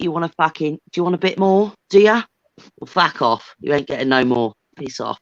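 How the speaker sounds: lightly voiced working-class English banter; Oliver Twist parody. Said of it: "So I'm like Oliver Twist".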